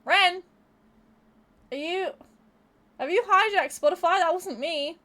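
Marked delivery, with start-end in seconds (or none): 0.0-0.4 calling out. Real, not acted. Calling out to Ren.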